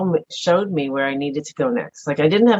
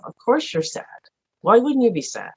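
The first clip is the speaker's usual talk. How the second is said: tender self-talk; 7 semitones higher than usual. Retold or imitated. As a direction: comfort yourself like a hurt child, gently. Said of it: "I talk to myself".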